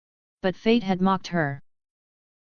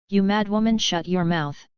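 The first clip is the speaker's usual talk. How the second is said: roar. Acted. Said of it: "Robert's roar thundered through the hall".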